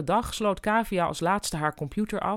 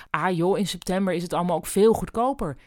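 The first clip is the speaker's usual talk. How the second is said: breezy, upbeat and fast, climbing higher to the end; cheerful; 7 semitones higher, 4 dB louder than usual. A narrator's reading. Boss cheerfully talks a lonely September holiday up to Kavia, breezy and upbeat. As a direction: sell it brightly, a boss brushing off the bad news. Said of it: "zei opgeruimd".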